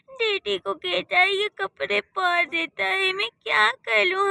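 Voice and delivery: lightly voiced boy crying to his sister; small child voice. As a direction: complain like a hurt little kid.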